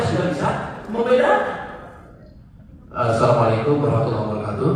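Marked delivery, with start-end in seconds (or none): 2.9-4.7 fast, brisk official greeting; a hint of an upacara announcer; ceremony MC greeting. Shown as a demonstration. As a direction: rattle it off like a ceremony host. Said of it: "Upacara peringatan".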